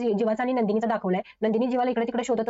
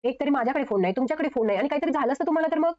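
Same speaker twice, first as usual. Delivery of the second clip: retold angry scolding; 4 semitones higher than usual. Wife scolds husband for vanishing, pitched-up mock anger. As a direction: imitate a wife scolding, half-hearted. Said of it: "Nandini आता रागावून म्हणते".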